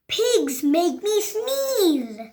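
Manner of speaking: slow lament. Acted.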